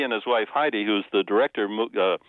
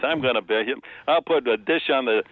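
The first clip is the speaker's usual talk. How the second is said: put-on New York accent. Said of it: "New York accent".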